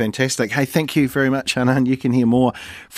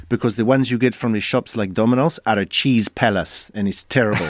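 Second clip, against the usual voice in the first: hammed-up Italian accent, poorly done; badly faked Italian accent; 3 semitones lower than usual. Host imitating friend's Italian wife explaining pizzas, bad Italian accent. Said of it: "I'm gonna do a really bad accent".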